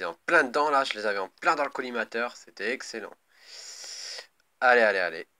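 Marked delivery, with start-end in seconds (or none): 4.6-5.3 urging shout. Real, not acted. Urging units on loudly.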